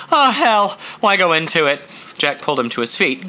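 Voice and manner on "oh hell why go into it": exasperated outburst. Acted. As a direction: spit out the curse, then dismiss. Jack brushing off question.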